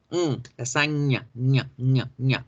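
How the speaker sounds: "lasaña" with the nasal hummed first; sound demonstration. Shown as a demonstration. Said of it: "es ese símbolo".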